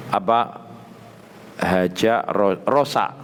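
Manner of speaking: ordinary talk, nothing marked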